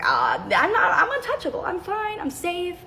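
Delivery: giddy and untouchable, laughing; laughing, carefree. Retold or imitated. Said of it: "So I was like".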